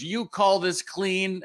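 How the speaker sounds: mock outrage, each word dragged out; indignant boss. Stern older woman scolding the young janitor, slow and shrill-pitched. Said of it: "she goes".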